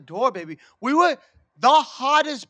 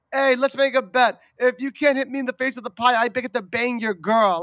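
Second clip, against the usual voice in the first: mock gangster taunt; 2 semitones higher, 3 dB louder than usual. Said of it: "Italian gangster slam poems".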